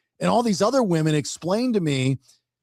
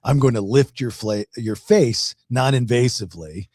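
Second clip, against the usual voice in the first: spa talk voice; 6 semitones lower than usual. Pretend. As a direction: talk a client into calm. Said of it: "your spa talk voice".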